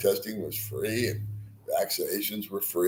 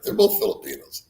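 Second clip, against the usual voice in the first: amused emphasis; 13 semitones higher than usual. Real, not acted. Amused remark on lookalikes.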